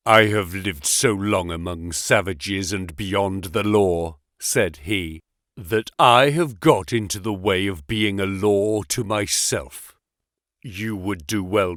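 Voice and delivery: low, cold warning from a hard man; gruff explorer voice. Acted. Sterndale's veiled threat.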